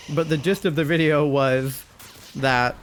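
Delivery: talking with food in mouth; words round a bite of dinner; mouth full. Real, not acted. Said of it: "let me swallow my food".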